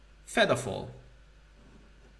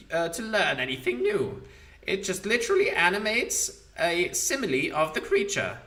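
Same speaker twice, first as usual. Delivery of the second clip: rough, higher undead skull; mocking ancient lich scolding; Demilich voice; 3 semitones higher than usual. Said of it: "Demilich voice".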